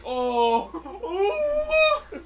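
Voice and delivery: booming high smiting god voice; hammed-up divine wrath; mock biblical prophet. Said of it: "going, going".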